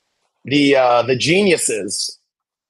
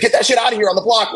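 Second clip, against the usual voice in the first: quick, raised mock shout; imitating a hype yell; 9 semitones higher, faster than usual. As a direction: echo a friend's hype lightly. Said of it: "as Jack said".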